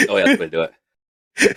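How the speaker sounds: talking through a yawn; stifle a yawn as you speak. Real, not acted. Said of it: "Sorry if I'm yawning quite a bit".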